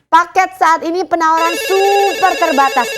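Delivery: hard-sell TV shopping pitch; infomercial. Acted. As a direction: push the deal, eager and urgent. (gaya iklan jualan yang bersemangat)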